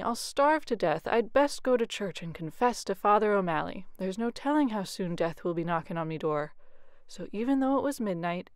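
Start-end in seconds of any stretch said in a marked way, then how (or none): 0.0-6.5 wailing. Acted. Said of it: "wailed Jamie".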